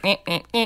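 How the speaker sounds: wordless meeps in a row; meep sounds. Retold or imitated. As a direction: imitate little meeping characters. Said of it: "meep sounds".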